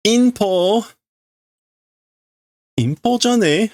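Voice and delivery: high mocking jab; taunting insult. Character mocking Ichigo, high taunting voice. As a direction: sneer it at him.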